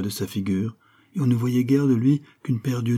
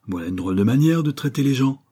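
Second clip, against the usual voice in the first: crié; 4 semitones higher, 3 dB louder than usual. Acted. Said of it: "cria-t-il en frappant par terre".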